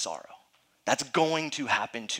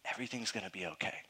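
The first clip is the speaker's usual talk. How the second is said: soft reassurance; 4 semitones lower, 10 dB quieter, faster than usual. Retold or imitated. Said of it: "in the hospital and you say".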